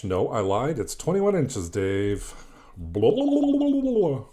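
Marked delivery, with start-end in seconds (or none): 2.8-4.2 mocking blah blah. Mock filler words.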